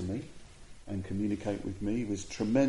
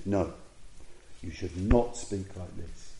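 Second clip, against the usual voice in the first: slow, deliberate, serious correction; really serious rebuke. Retold or imitated. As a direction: refuse the excuse, spacing out each word. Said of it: "he was really serious".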